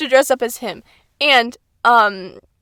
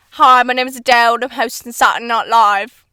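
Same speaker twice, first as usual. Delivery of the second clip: imitating British host; 6 dB louder than usual. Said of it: "her monologue was like".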